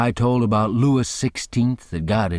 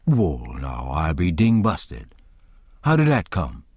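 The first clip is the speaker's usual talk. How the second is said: slow, low amazed exclamation; astonished Jim; 6 semitones lower than usual. Acted. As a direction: let the wonder sink in slowly.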